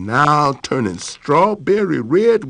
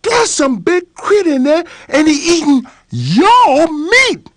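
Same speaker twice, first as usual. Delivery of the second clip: scared critter; 12 semitones higher, 4 dB louder than usual. Acted. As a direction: gasp it out like he's seen a monster. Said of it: "he yelled to Boss Lion".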